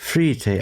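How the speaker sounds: "Frite" said as free-tay; "Frite" with a made-up French -ay ending; mock French pronunciation. Shown as a demonstration. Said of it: "it has to be French".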